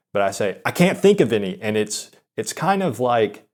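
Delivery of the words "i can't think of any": slightly raised, exasperated retort; retold angry yell. Nervous guy repeating it so she can hear, mock pissed-off. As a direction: imitate snapping a bit too loud, mildly. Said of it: "sounded like I was pissed off and yelling".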